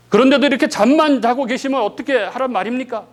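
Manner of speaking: mock complaint. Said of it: "이런 얘기인 거죠".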